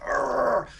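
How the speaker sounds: imitated effort growl; strained growl. Kid giving everything to lift bike, straining growl. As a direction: growl as if heaving something heavy.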